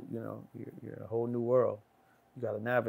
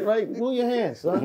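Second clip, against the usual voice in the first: loud warning; 10 semitones higher, 6 dB louder, slower than usual. Retold or imitated. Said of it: "Yo, like".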